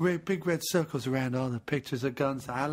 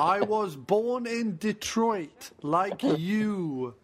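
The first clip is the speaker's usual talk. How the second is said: mock Detroit man; 5 semitones higher, 3 dB louder, much slower than usual.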